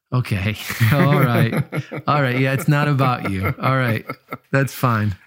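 dry, mock acceptance; short, dismissive agreement with doubtful pauses; sceptical humoring. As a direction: humor them without believing a word.

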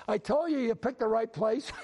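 imitating a dad yelling out from the audience; imitated yell. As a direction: call it out like a thrilled father. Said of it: "one father yells out".

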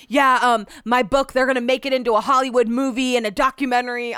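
loud mock bragging voice; mocking braggart. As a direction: brag like a washed-up star. Mocking a cringey guest.

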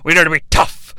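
loud, pushy wrestling boss; Vince McMahon. Retold or imitated. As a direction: bark it like a brash promoter. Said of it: "that's how Vince McMahon would pitch this".

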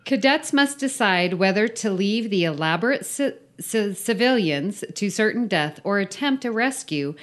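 emphatic read-aloud of a silly briefing; story read-out. Acted. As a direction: read the mission briefing with mock importance. Reads the filled-in story aloud.

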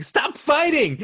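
squeaky high plea through laughter; laughing mock plea. Friend quoting a favourite movie line, laughing high plea.

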